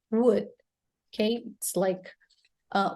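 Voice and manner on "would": "would" as one short syllable, L silent; demonstrated pronunciation. Shown as a demonstration. Teacher shows learners this word, clear pronunciation. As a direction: say "would" like "wood". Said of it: "It's pronounced this way".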